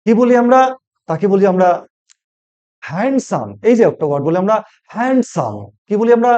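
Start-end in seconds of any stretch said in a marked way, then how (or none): 2.9-3.5 হ্যান্ডসাম with the d sounded, "hand-sam"; mispronounced handsome. Shown as a demonstration. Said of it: "প্রায় বলি, কিন্তু না". 4.9-5.5 হ্যান্ডসাম with the d sounded, "hand-sam"; mispronounced handsome. Shown as a demonstration. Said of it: "প্রায় বলি, কিন্তু না".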